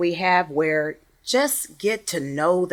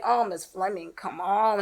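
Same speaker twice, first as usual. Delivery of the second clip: softer, mildly pleading student protest; complaining student; 6 dB quieter than usual. Retold or imitated. Sleepy student to teacher after lunch, mild complaint. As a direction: lightly imitate a reluctant pupil.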